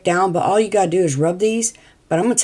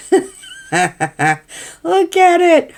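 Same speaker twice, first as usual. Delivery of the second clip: high squeal through laughter; laughing; 11 semitones higher, 4 dB louder, much slower than usual. Real, not acted. Laughing at gross mixture.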